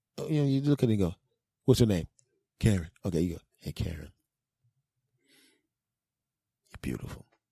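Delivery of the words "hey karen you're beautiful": soft, sincere whisper with breath held briefly. Demonstrating just how to say the line, said with feeling. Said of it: "You got to put the little pause in there. You got to feel it".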